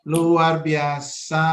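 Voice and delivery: slow, low, drawn-out wonder; drawn-out praise. Acted. Teacher praising a child's answer, slow amazed drawl. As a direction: stretch it out like a delighted teacher.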